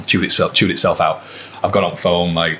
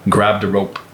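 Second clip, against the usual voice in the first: badly imitated Irish accent; mock Irish traveller accent; butchered Irish accent; slower than usual. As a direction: have a rough go at an Irish accent. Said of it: "It's a great Irish accent".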